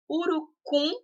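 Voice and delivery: Urucum pitched high, weight on CUM; stress on last syllable. Shown as a demonstration. Teacher giving an oxytone example, stress on CUM in Urucum. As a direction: lean on the final -cum of Urucum. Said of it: "o cum é mais forte".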